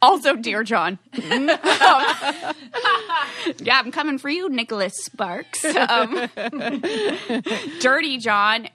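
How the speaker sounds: loud giggly laughter; laughing. Real, not acted. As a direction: laugh while you talk. Laughing at the mix-up.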